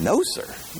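high, incredulous question; can't believe what he heard; surprised echo. Acted. Millionaire stunned by refusal.

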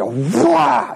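big whooshing "wah"; imitated wild throw. Coach mimicking Hunter's pitch to the crowd, explosive noise. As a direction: sound out a wild, forceful throw.

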